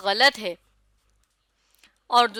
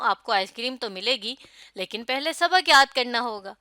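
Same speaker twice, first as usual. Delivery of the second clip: put-on telling a child. Shown as a demonstration. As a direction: speak to a child about homework. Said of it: "پتہ چل رہا ہے کہ میں کسی کو کہہ رہی ہوں". (بچے سے بات کرتے ہوئے)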